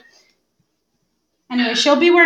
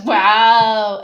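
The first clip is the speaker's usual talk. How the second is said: sarcastic wow; 5 dB louder than usual. Retold or imitated. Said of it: "sarcastic wow".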